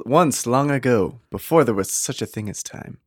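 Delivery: grand movie-trailer narration; epic fantasy narrator. Acted. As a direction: read it like an ancient legend. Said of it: "I faded in and out of, uh, an accent".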